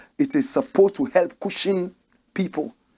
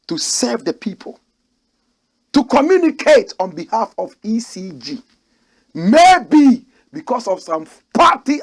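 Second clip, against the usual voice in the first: angry rant; 3 semitones higher, 5 dB louder than usual. Real, not acted.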